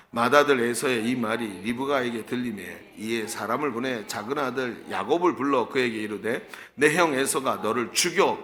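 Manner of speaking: steady scripture reading aloud. A narrator's reading. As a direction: read the verse out in an even, measured chant-like tune. (성경을 또박또박 낭독하는 어조)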